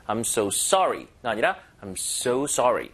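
first I'm so sorry with the weight on sorry, then I'm so sorry with the weight on so; slow contrast, moving the stress from sorry to so; wrong then right stress. Shown as a demonstration. Teacher contrasts sorry stress with so stress for students. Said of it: "so에 살짝 강세 주는 게 낫겠죠".

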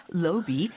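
"로비" with a rounded o first vowel; British-style "로비", oh not ah; British pronunciation. Shown as a demonstration. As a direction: say "로비" the British way, as "loh-bee". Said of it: "갑자기 로비 이렇게".

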